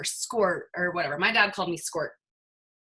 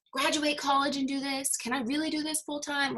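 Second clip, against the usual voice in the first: mock fearful doubt; 7 semitones higher, 3 dB quieter than usual. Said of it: "a lot of you say you're fearful".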